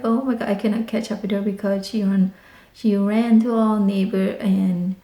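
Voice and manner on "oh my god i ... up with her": breathless panic. Retold or imitated. Panicked chase.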